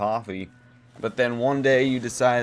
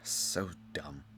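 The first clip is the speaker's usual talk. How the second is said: whispered aside; 7 semitones lower, 12 dB quieter than usual. Real, not acted. Muttered aside about chainsaws.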